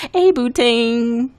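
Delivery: loud, slow drawn-out hey; stretched-out shouted hello; loud greeting. Real, not acted. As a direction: call the greeting out long. Greeting a viewer loudly.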